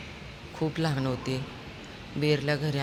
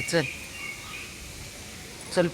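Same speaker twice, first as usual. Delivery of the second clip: ordinary talk, nothing marked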